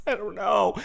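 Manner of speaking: high, overwrought complaining; whiny lament. Acted. Streamer complaining about doing this while tipsy, high and whiny. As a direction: wail about how unfair this is.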